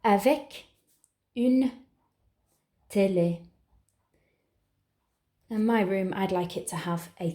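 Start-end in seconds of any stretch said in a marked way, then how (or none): 0.0-3.4 slow dictation. Shown as a demonstration. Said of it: "this is my first detail".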